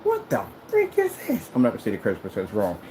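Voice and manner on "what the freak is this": high-pitched, drawn-out outrage; Samuel Jackson. Acted. Projector cursing out its owner over the screen, outraged. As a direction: yell it in exaggerated disbelief. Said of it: "your projectors would sound like Samuel Jackson".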